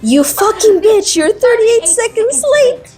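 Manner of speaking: high, slow, venomous snarl; vicious rich mom. Retold or imitated. Rich mom to late maid, high slow venomous insult. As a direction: spit it out like a cruel rich mother. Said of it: "rich mom literally goes".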